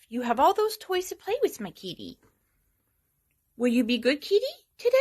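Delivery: soft, high, sing-song cult member cooing to the cat. Real, not acted. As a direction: coo at the kitty like a serene cult member. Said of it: "I sound like a cult member".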